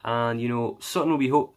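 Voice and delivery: hammed-up Irish accent. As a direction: keep the jokey Irish accent going. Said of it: "I'm gonna stop doing the accent now".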